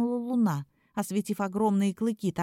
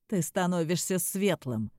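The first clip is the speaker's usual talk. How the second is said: hoarse voice; 3 semitones lower than usual. Acted. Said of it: "раздался хриплый голос".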